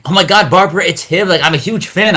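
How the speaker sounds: high-pitched fangirl gush; excited fan. Retold or imitated. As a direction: retell a starstruck fan's excitement, high. Retells actresses meeting him, starstruck.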